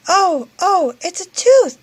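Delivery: high, loud chuckling Daddy Pig; laughing. Acted. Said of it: "Daddy Pig laughed".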